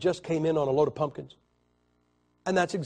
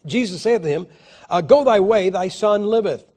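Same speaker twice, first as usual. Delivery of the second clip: loud, higher King James proclamation; scripture reading; 4 semitones higher, 8 dB louder than usual. Acted. Preacher reading John chapter four aloud to the congregation, loud. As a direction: proclaim it like the Lord speaking.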